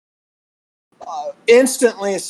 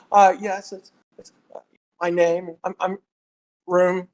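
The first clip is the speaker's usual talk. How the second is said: put-on halting, over-correct accent free of Southern; careful perfect accent. Traveller at a New York hotel, carefully correct accent. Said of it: "perfect in my accent".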